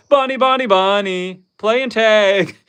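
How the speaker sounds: high bouncy bunny chant; playful sing-song. Real, not acted. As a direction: bounce it like a nursery game. Playful sing-song about bunnies.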